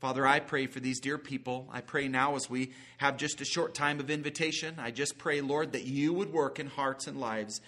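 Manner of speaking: earnest, steady prayer voice; pastoral prayer. Acted. Preacher praying over his congregation at the close, earnest.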